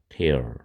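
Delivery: tear를 '테어'로 짧게; 'tear'를 '테어'처럼 끊어 말하기; tear pronounced tear. Shown as a demonstration. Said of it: "이렇게 되죠". ('tear'는 '테어'라고 발음)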